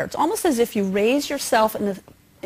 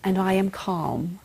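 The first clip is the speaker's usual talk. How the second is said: mantra; 2 semitones lower, 4 dB quieter, slower than usual. Shown as a demonstration. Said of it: "as you let it out slowly".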